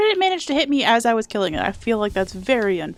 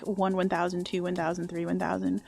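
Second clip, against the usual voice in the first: soft counting; 3 semitones lower, 6 dB quieter than usual. Shown as a demonstration. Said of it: "I normally whisper count to myself".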